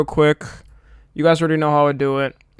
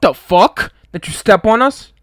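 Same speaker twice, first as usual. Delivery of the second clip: baffled reread; 5 semitones higher, 5 dB louder, slower than usual. Real, not acted. Reads a weird donation message.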